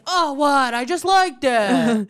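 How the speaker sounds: high, airy, dismissive; mock carefree voice. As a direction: play it off like it meant nothing. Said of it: "I like to be like".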